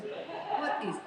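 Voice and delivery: put-on light Armenian accent, baffled question; Armenian babysitter. Babysitter faced with a messy closet, light Armenian accent. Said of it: "babysitter was from Armenia".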